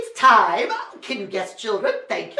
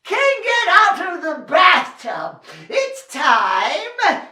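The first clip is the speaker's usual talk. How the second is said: put-on old duke calling; 5 semitones higher than usual. Old duke calls to the king.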